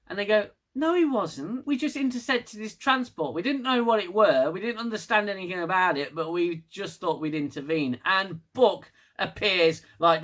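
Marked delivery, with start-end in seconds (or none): 0.7-8.0 high-pitched explaining, easing down to usual pitch; mock protest. Ten C explaining the intercepted transport, high mock protest. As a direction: start high in innocent protest, then settle. Aliens protesting in acted reply.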